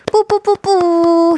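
high, drawn-out vocal trumpet toots; mouth fanfare. Shown as a demonstration. Radio host cheering an exam-stressed student, high mouth fanfare. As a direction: toot a fanfare with your mouth. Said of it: "입방파레를 불려드리고요".

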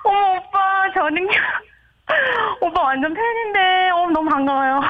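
caller voice ringing with echo; radio echo on the phone line; digital echo. Real, not acted. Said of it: "왜 이렇게 울려?". (울리는 에코 목소리)

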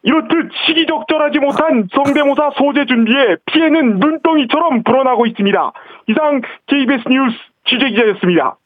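on-the-scene TV news report; field reporter voice. Pretend. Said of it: "취재 기자 해보겠습니다".

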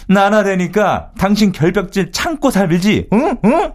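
slow, high-pitched mocking comeback; acted inner retort. Husband silently answering wife's remark, high mocking retort. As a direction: throw the spouse's line back emphatically. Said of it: "제가 속마음으로 이랬죠".

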